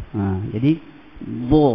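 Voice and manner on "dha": heavy "dha", rounded toward "do"; raised DHA. Shown as a demonstration. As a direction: lift the tongue for a full "dha". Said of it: "bagi atas".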